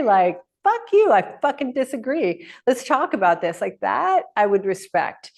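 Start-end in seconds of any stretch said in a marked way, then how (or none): 0.6-3.6 blunt disagreement. Retold or imitated. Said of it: "you can say".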